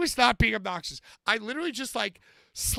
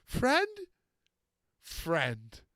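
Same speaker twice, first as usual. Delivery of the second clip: Frankenstein's monster; 4 dB quieter than usual. Retold or imitated. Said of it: "He says it".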